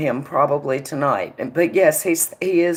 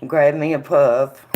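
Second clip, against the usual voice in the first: cigarette in mouth; 4 dB louder than usual. Real, not acted. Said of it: "Let me light my cigarette".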